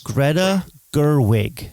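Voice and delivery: slow, deliberate naming; careful slow. Shown as a demonstration. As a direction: say the name slowly and carefully. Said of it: "Learn people's names".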